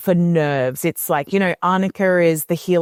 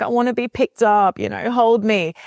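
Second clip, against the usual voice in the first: put-on fussy toddler; 5 semitones higher than usual. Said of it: "that they're like".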